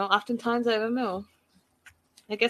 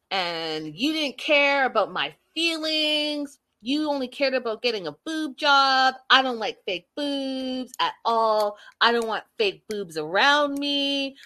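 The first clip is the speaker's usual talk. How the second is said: mock aggrieved boyfriend; 5 semitones higher than usual. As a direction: stretch out the grievances like a sulky boyfriend. Boyfriend's acted quarrel.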